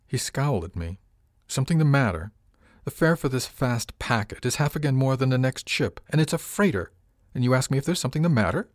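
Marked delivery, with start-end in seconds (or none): 1.5-8.7 indignant. Acted. Dubois indignant about fare.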